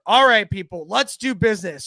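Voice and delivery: light imitation of a barking gym teacher; a hint of a sharp playground warning. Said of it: "Everybody makes you sound like a gym teacher".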